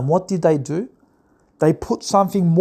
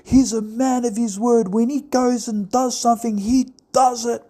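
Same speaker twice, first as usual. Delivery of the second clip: mock Trump fan; 4 semitones higher than usual. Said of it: "You're going".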